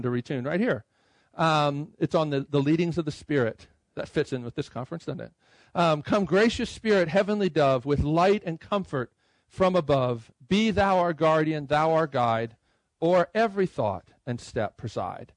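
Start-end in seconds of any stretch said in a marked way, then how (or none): 6.0-15.3 hymn text spoken slowly and deliberately; read aloud slowly. Shown as a demonstration. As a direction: speak the verse as a text, unhurried. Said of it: "I would just say that out loud".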